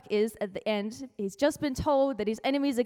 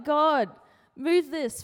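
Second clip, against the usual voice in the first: mock crying out; 3 semitones higher, 5 dB louder, much slower than usual. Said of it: "cried out to God".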